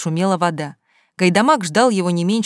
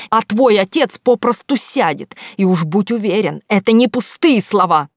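loud threat; 2 semitones higher, 5 dB louder than usual. Acted. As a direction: threaten him, biting every word. Father threatens the lover. (громкая угроза, медленно, с нажимом)

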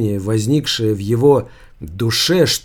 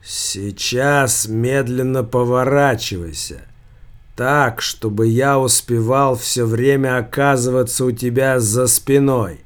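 sepulchral voice. Acted. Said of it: "своим ужасным, словно бы доносившимся из преисподней голосом".

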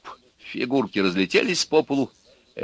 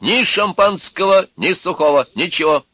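stubborn refusal; 9 semitones higher, 6 dB louder than usual. Acted. Electrician refuses drink heatedly.

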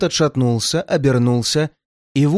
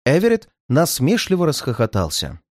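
plain reading voice

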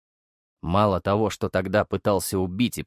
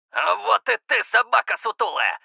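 laughing; 6 semitones higher than usual. A narrator's reading. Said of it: "засмеялся капитан".

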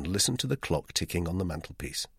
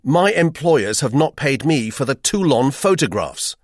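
reckless retort; 7 semitones higher, 9 dB louder than usual. Acted. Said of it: "I retorted recklessly".

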